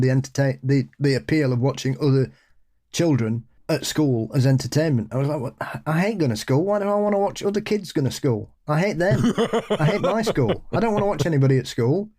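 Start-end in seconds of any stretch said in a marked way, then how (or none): 5.4-12.1 put-on high, petulant child voice; sulky schoolkid complaining; whiny kid rant. Mocking his childhood self.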